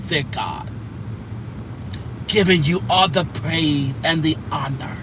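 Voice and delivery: lightly voiced churchy prayer; a hint of a solemn church prayer; imitating prayer. Mocking Cora leading prayer, a light churchy drone. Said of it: "Cora and her praying".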